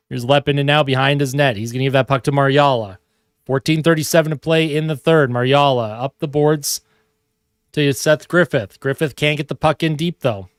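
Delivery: hockey announcer calling the action; lively sportscaster call; live play-by-play. Acted. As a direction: call the game like a TV broadcaster. Mock hockey broadcast while playing.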